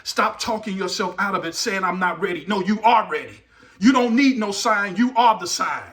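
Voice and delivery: punchy, forceful sermon exhortation; emphatic preaching. Real, not acted. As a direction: urge the congregation on, hitting key words hard.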